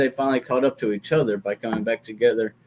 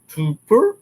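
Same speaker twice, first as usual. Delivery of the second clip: imitated noise; 9 semitones higher, 6 dB louder than usual. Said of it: "went toot".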